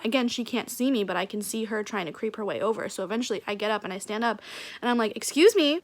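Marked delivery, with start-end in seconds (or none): 5.2-5.8 higher, louder call-out; retold confrontation, pointedly indignant; indignant challenge.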